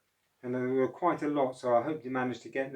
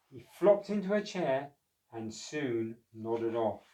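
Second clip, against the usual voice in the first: slow, fading read-aloud; sleepy storybook narration; slower than usual. Acted. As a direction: let it drift off to sleep.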